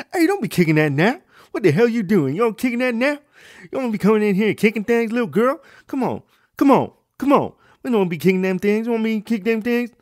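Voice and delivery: loud, high hammed-up scolding father; gibberish-sounding angry dad. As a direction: rant in run-together words as an outraged dad. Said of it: "it just sounded like fucking gibberish".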